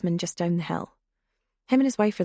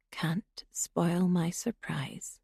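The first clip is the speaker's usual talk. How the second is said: slow sinister whisper; 7 dB quieter, much slower than usual. A narrator's reading. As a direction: savour it, softly and slowly. Intruder leaving.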